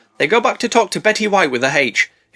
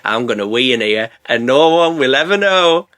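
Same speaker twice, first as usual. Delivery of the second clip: sneaky giggling Hector. Acted. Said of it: "he's thinking".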